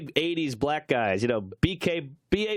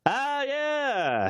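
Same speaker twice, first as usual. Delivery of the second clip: higher, lightly voiced nervous booker; intimidated booker; 9 semitones higher than usual. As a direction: play it as a startled, meek guy at the door. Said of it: "the booker guy goes".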